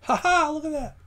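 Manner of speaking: high-pitched little triumphant cry; gleeful discovery. Real, not acted. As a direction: crow with delight, voice jumping up high. Pleased reaction to code working.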